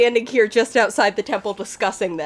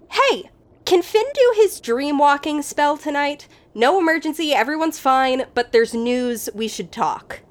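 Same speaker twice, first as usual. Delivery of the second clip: Nell's message voice; 5 semitones higher than usual. Acted. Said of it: "you hear Nell's voice, um, go".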